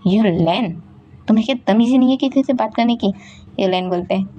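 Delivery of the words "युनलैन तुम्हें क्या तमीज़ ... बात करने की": indignant rebuke. Acted. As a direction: scold him for his manners. Wahi rebukes Yunlain's rudeness.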